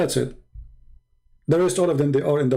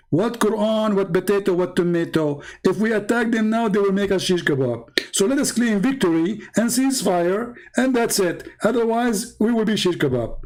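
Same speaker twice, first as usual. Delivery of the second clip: higher-pitched, dismissive protest; mock alarmed refusal; 4 semitones higher than usual. Acted friend talks his brother out of attacking, mock alarmed protest.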